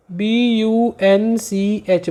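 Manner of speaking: slow letter by letter, B U N C H; spelling it out. Shown as a demonstration. Teacher spelling bunch for students, slow and careful. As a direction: spell the word bunch slowly for the class to copy. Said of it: "याद रखना ये क्या बोला है मैंने".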